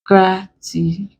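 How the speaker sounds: GRATITUDE split syllable by syllable with gaps; broken into syllables. Shown as a demonstration. Teacher breaking a word for students, GRATITUDE syllable by syllable. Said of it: "Let's break".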